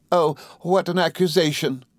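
high, wide-eyed indignation; shocked exclamation. A narrator's reading. Wife protesting husband's accusation, high shocked exclamation. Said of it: "exclaimed Dora, opening her eyes wide".

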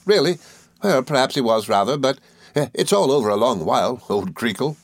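put-on high, eager old schoolfellow; Traddles, good-tempered. A narrator's reading. Traddles welcoming his old friend, high and good-tempered. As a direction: explain earnestly in a lifted character voice.

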